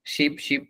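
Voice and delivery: both "শিপ, শিপ" softly with the same short i; identical short vowels. Shown as a demonstration. Teacher mimics everyone saying both words alike, identical short vowels in "শিপ, শিপ". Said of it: "একে উচ্চারণ".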